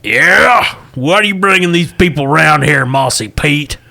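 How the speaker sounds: redneck Egyptian voice. Acted. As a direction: play a suspicious tavern owner. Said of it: "my redneck Egyptian voice".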